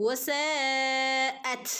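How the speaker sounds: വസാഅത് ending in a puff of air; breathy ta. Shown as a demonstration. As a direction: let the final ത് escape as air. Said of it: "കാറ്റ് പോകുന്ന രൂപത്തിൽ". (കാറ്റോടെ ത്)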